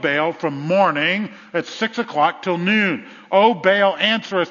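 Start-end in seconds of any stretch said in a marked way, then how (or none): 3.3-4.5 louder pleading call to a god; preacher imitating shouting priests; retold shout. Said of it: "they began to shout".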